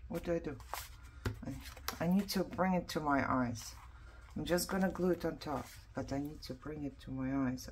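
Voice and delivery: talking around a needle held in the mouth. Real, not acted. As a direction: speak with a needle between your lips. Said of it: "why I talk so funny".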